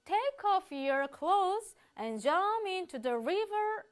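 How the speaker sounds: slow, drawn-out; slow quoted command. Acted. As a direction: say each word slowly. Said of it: "이라고 얘기를 했죠".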